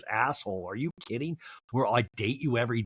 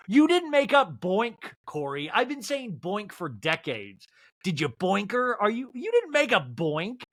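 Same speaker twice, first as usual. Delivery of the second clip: mock outrage; 6 semitones higher than usual. Real, not acted. Indignant rant at Corey.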